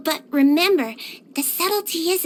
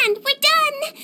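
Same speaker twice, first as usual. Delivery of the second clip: much higher, bright announcement of being done; cheerful finish; 9 semitones higher than usual. Acted. Healer finishes the player's skincare treatment, cheerfully higher. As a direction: sing out that it's finished.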